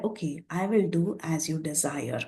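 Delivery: a softly deferential reply, dropping at the end; respectful assent. Acted. Hanuman answers his friend's request, respectfully. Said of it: "very respectfully, he said".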